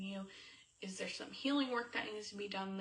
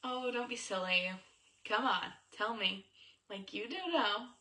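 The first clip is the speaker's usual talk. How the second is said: playful coaxing; 2 semitones higher, 4 dB louder than usual. Shown as a demonstration. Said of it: "It's more like".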